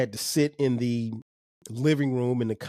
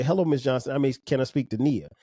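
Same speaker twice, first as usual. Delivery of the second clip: polite caller; faster than usual. Shown as a demonstration. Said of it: "No, you may say".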